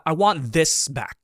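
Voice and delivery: "this" stressed in "I want this back". Shown as a demonstration. Teacher showing how emphasis shifts in speech, stress on "this". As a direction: lean on the word "this". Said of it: "The emphasis on this".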